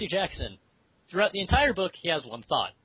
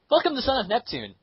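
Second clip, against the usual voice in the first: higher, louder announcement; announcer voice; 5 semitones higher, 4 dB louder than usual. Shown as a demonstration. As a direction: announce it with flair. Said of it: "we're going to do it a little differently".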